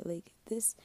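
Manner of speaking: brief whispered aside. Real, not acted. Rambling host trailing into a whisper. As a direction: drop to a breath.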